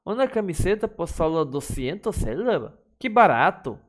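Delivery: mock the price with irony; ironic exclamation. Shown as a demonstration. Teacher showing irony, sarcastic about an overpriced shirt.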